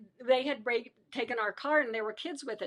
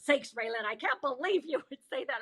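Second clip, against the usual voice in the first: retold exasperation. Guard reacting to prisoner's cheeky joke, mock exasperation.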